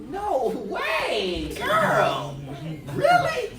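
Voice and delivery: shocked disbelief. Retold or imitated. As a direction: squeal your disbelief at her. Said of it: "I'm like".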